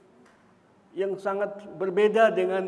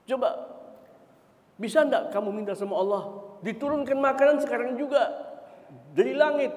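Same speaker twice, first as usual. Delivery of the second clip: demanding disciples; 4 semitones higher, 4 dB louder than usual. Acted. Disciples demanding food from sky.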